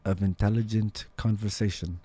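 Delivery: mild mock-earnest voice of JFM; JFM impersonation. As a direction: lightly mimic JFM's earnest tone. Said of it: "It's my J F M impersonation".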